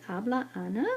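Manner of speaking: "habla Ana" ending in a rising question tune; Spanish yes-no question, rising at the end; question rise. Shown as a demonstration. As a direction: lift the voice on "Ana" to ask. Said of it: "make your voice go up".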